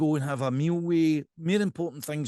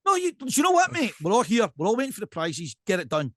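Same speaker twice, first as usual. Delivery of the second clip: impatient heckle; 4 semitones higher than usual. Retold or imitated. Heckling the speechmaker.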